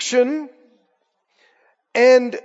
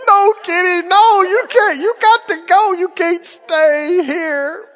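much higher, strained pleading; squeaky pleading refusal; 7 semitones higher than usual. Retold or imitated. Owner under a huge cat, much higher strained pleading. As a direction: sound overwhelmed by the cat. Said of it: "three cans of cat food going".

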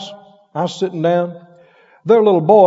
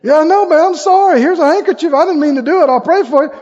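hearty mock apology; 7 semitones higher, 4 dB louder than usual. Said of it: "pretend apology to Mo".

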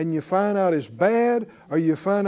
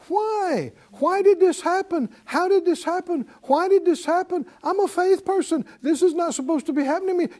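much higher, whiny mock panic; panicky doubter; 9 semitones higher than usual. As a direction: play the frantic believer who lost faith. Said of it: "You don't sound like a faith person".

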